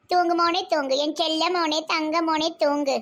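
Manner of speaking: gentle coaxing to sleep, sinking at the end; tender soothing. Acted. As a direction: murmur fondly to a sleeping child. Mother soothes sleeping son.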